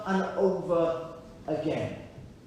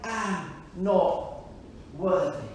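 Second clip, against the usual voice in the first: guilty murmur; 4 semitones lower, 4 dB quieter, slower than usual. Retold or imitated. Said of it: "a feeling of".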